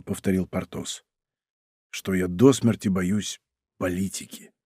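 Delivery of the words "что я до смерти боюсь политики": slow, hushed admission; lowered voice. A narrator's reading. Porthos admitting his fear of politics, slow hushed voice. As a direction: quietly own up to the fear, slowly. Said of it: "И Портос понизил голос".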